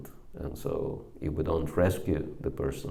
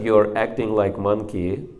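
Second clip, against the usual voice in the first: "You're acting like monkey" said louder and forceful; a louder, forceful retelling; louder retold rebuke; 3 semitones higher, 5 dB louder than usual. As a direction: push "You're" hard and loud. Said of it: "I became so upset".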